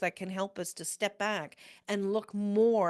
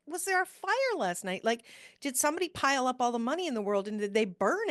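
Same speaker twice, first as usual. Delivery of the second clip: mock-outraged repeat; 2 semitones higher, faster than usual.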